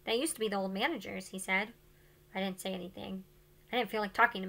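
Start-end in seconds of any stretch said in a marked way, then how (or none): 0.1-1.3 quiet aside. A narrator's reading. Mr. Yao points at the cap.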